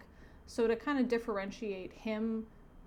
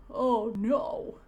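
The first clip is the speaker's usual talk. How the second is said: dismayed police chief; 2 semitones higher, 5 dB louder than usual. Acted. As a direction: play an alarmed cartoon chief. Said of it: "The chief says".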